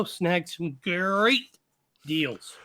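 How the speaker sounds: slow, stretched cartoon tiger drawl; generic tiger voice. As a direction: draw out great like a cereal-box tiger. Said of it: "Oh, Tony the Tiger".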